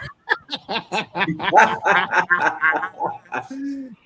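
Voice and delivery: long burst of open laughter; hearty, sustained laugh; real laughter. Real, not acted. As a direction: crack up at your own joke. Laughs at his own joke.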